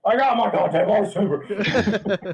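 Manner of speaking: laughing menace. Acted. Playful menacing quote, laughing.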